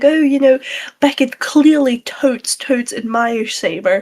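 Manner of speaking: drawn-out, slow Valley Girl mockery. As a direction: mimic a ditzy Valley Girl, stretching 'totes'. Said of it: "The Valley Girl voice".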